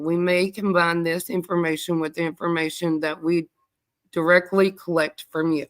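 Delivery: winded, short of air; reading while out of breath. Real, not acted. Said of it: "I'm about out of breath".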